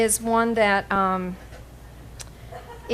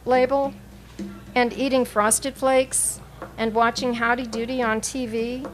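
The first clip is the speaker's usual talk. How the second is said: measured poetry recital with pauses between phrases; deliberate, evenly phrased poem reading. Acted. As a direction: read it out as a poem, line by line. Reads own poem aloud.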